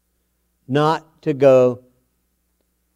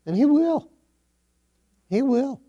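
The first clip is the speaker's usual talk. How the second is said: fervent affirmation; 12 semitones higher than usual. Real, not acted. Preacher affirms that God will guide.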